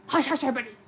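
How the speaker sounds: lightly voiced librarian hushing; strict librarian. Librarian silencing everybody, lightly acted. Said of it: "she's gonna be like".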